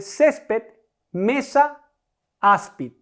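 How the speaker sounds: "césped, mesa, áspid", each leaning on its first syllable; penultimate stress. Shown as a demonstration. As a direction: set the words apart, weighting "cés", "me", "ás". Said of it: "es la penúltima". ("césped, mesa, áspid", recargando la penúltima sílaba)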